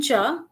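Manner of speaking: "cha" held around middle pitch. Shown as a demonstration. Lecturer introducing the second Dogri word, "cha" in mid tone. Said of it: "And then I had a mid tone".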